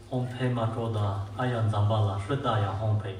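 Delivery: "Om Pema Toda Ayan Zambala Hridaya Hompe" run together in one smooth breath; steady, flowing mantra recital; mantra recitation. Shown as a demonstration. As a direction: recite it fluently as in practice. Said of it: "So we have to chant that mantra".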